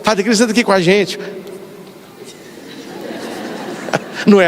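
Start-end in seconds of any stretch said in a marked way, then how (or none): 0.0-1.2 fast, eager repeat of the invitation; rushed happy echo. Retold or imitated. The shy priest repeats the invitation he got, a fast eager echo. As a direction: echo it back quickly, relieved. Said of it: "Eu, eu fico assim".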